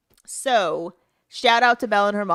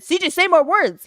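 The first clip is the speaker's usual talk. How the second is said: louder, higher retold impatience; raised-pitch exasperation at her kid; exasperated mother; 8 semitones higher, 5 dB louder than usual. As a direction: retell a mom losing patience.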